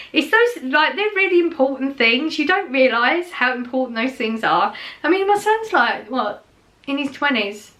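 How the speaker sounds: fighting back tears over little notes; choked-up sincere tone; getting emotional. Real, not acted. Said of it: "Sorry, I didn't mean to get emotional".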